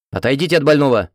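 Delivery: loud, stern order to step away; stern command. A narrator's reading. Nurse ordering the hero away from the patient: loud stern command. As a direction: bark it like a strict nurse in charge. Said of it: "раздался грозный голос медсестры".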